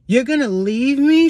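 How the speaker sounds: high-pitched mock female coworker; imitating needy woman. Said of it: "She's like".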